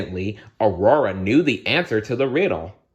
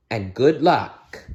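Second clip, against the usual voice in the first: queen voice; 4 semitones higher, slower than usual. Acted.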